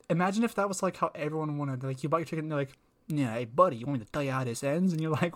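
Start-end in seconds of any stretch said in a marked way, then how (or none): 3.1-4.9 put-on weird New York accent. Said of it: "weird New York".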